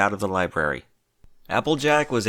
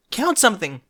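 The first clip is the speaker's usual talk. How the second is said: panting; 11 semitones higher, 4 dB louder than usual. A narrator's reading. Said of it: "Twilight panted".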